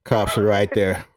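calmly. Retold or imitated. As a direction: keep it cool like a movie hero. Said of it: "you just said it so calmly".

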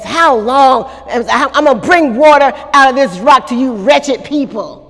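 mildly worked-up mock tirade; infuriated Moses. Preacher voices Moses scolding the people at the rock, mildly infuriated. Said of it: "he's just infuriated".

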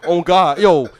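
high and loud, laughing through it; cracking up mid-rant. Real, not acted. Laughing at his own bit.

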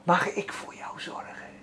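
soft whispered question; tender whisper. Retold or imitated. God tenderly asks Peet, whispered. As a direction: whisper it gently like a caring father. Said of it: "Het klinkt al zo liefelijk".

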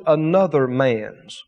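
"another man's" said low and slow, each word weighed; stress on another man's. Shown as a demonstration. Preacher pointing out two key words, slow and low stress. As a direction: lean slowly on "another man's". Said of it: "He emphasized to me that those two words".

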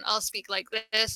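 low, soft everyday voice; everyday speaking voice. Shown as a demonstration. Demonstrating how she talks to anyone, low and soft. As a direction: drop it down, soft and casual. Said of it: "Whenever I'm talking to anyone".

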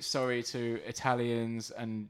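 slow, laughing mock apology; fake apology. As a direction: say sorry without meaning it.

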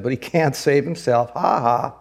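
lightly acted jeer with spoken "ha ha"; mocking elders. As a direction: taunt a helpless man, understated. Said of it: "the elders mocked him".

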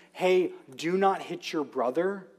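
put-on mild scolding of a child; a light parent's warning tone; parental scolding. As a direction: parent rebuking children, firm but mild. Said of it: "you can rebuke your children".

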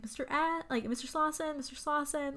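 high, tentative mock call; lightly acted calling out; imitating calling out. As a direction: call a name as if looking for someone, without real volume. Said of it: "she's calling out for him".

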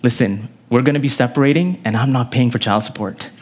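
low, weary-of-it husband; mock jaded spouse, dropping low. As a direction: lay down terms like a fed-up husband. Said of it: "a very jaded husband".

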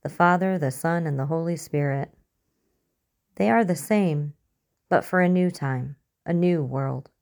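gently joyful preacher; happily. Acted. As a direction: share the good news with delight. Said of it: "the man said happily".

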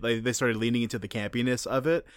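ordinary talk, nothing marked

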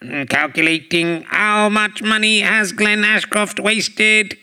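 slow computer processing robot voice; robot voice, calculating in monotone. Pretend. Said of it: "I've got to go over to Robot Voice".

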